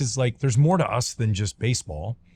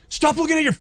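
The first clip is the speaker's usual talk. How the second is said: laughing tease; 4 dB louder than usual. Retold or imitated. Ribbing about girlfriend.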